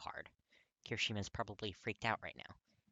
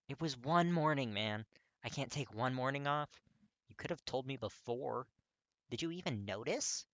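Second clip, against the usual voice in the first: frustrated; 4 semitones higher, 5 dB louder than usual. Acted. Kirishima frustrated argument.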